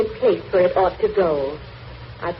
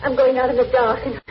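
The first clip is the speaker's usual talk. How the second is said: frightened dying plea; 2 semitones higher than usual. Acted. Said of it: "Joe, I'm afraid".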